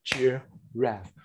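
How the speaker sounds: "giraffe" in two spaced beats, weight on the second; stressed second syllable. Shown as a demonstration. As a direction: clap out "giraffe", landing on its last syllable. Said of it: "because the second syllable is stress".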